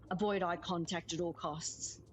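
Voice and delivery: said through a laugh; chuckling mock advice. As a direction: laugh while delivering the punchline. Joke answer said laughing.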